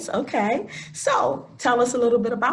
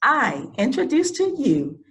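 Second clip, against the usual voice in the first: measured read-aloud guest introduction; formal introduction; 3 semitones lower than usual. Real, not acted. Host introduces an actress to the audience, formal introduction. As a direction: present the guest with formal, deliberate phrasing.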